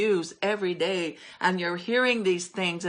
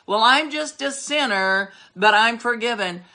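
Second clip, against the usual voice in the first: mocking a weak believer; 3 semitones higher, 4 dB louder than usual. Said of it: "You wouldn't dare say".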